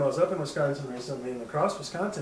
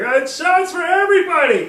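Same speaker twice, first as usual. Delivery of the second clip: put-on high, very loud drunken holler; hammered shout; 14 semitones higher, 13 dB louder than usual. Hammered man offering shots to the bar, mock drunken shout. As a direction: call it out like a drunk treating the bar.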